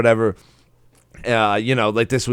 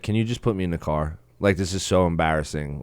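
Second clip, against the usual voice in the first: soft, sad, quick plea; quietly beg, embarrassed; 6 semitones lower, 9 dB quieter than usual. Retold or imitated. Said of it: "so fucking sad".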